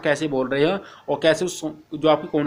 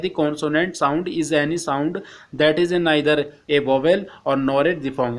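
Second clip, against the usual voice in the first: slow, careful reading of the English text; slow textbook reading; much slower than usual. Acted. Teacher reading the textbook to Hindi-speaking students, slow and careful. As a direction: read each English phrase slowly for the class.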